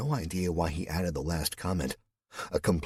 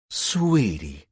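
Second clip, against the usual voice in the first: louder, teasing sarcasm on Sweetie; sarcastic; 3 semitones higher, 6 dB louder than usual. A narrator's reading. Louise mocking Cal's question, sarcastic and louder. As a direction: drip a little sarcasm. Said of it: "she said sarcastically".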